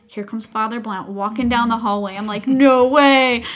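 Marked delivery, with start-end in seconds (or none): 2.5-3.4 loud, higher burst of disbelief; thrilled disbelief. Retold or imitated. Mother spots the priest in the hallway, thrilled disbelief. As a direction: blurt it out, amazed and loud. Retold surprise at seeing the priest.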